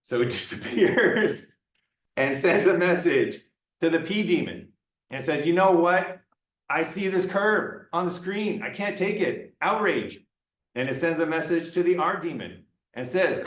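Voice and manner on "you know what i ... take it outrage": higher-pitched, lightly hammed-up indignation; playful exasperated outrage; mock outrage. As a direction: act as if you've had enough. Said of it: "gets very angry and outraged".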